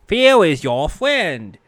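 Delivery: a lightly voiced Elmer Fudd by mistake. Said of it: "Why did I say that in Elmer Fudd's voice?".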